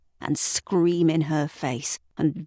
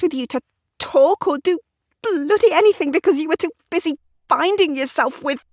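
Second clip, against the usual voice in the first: higher, louder Sarah venting years of frustration; Sarah voiced higher, bitter; exasperated wife; 12 semitones higher, 4 dB louder than usual. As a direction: pile the grievances on, rising.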